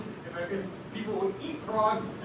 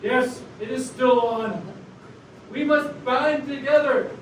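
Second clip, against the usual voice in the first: deliberate radio rallying speech; rally the listeners, phrase by phrase. Acted. Frog rallying listeners against the toad, proclaiming. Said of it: "You're the one with the radio voice".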